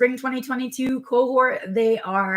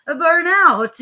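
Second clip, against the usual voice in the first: emphatic reveal; 9 semitones higher, 8 dB louder than usual. Real, not acted. Dramatic answer to her question.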